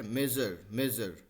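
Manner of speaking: मेजर said as mezhur, zh between ज and स; soft zh sound. Shown as a demonstration. Teacher demonstrating the English sound of measure. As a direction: give मेजर a soft buzzing zh. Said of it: "ज और स मिला के मेजर".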